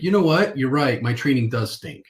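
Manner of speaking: high start on the first words, then easing down, lightly voiced prospect; conceding prospect. Prospect admitting the elephant mailer was right, high then relaxed. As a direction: give in good-naturedly.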